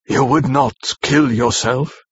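slow, hoarse question; hoarse, slow disbelief; asked hoarsely. A narrator's reading. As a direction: force it out slowly through a tight throat. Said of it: "he asked hoarsely".

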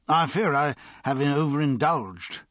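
sad. A narrator's reading. Ailing man confesses overindulgence to his friend, sadly. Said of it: "said Fowler sadly".

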